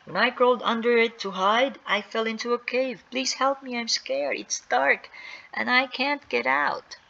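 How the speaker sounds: put-on high-pitched frightened girl; scared pleading. Trapped Sally to the boys, pleading scared.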